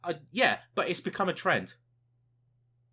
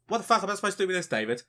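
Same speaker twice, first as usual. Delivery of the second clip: high, loud outraged tirade; exasperated viewer rant; 3 semitones higher, 5 dB louder than usual. Acted. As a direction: berate the presenter as a betrayed viewer. Acted viewer berating Attenborough.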